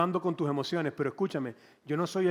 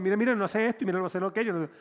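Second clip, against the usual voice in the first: whiny husband; 3 semitones higher, faster than usual. Retold or imitated. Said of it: "medio femenino".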